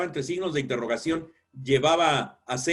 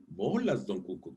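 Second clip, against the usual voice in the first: mock enthusiasm; 7 semitones lower, 4 dB quieter than usual.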